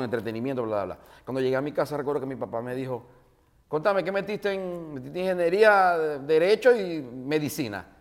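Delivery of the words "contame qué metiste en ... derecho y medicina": father's voice. Retold or imitated.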